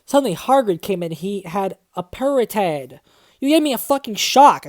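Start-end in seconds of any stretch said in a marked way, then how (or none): 3.4-4.7 loud, higher angry outburst; angry shout. Acted. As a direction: yell it in startled fury. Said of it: "I shouted angrily".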